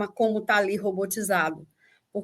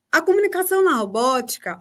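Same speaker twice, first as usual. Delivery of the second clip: "a comunicação na robótica" lifted in a raised, deliberate tune; "a comunicação na robótica" said with pointed, higher intonation; demonstrated intonation; 4 semitones higher than usual. Shown as a demonstration. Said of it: "olha o, a entonação que eu tô dando".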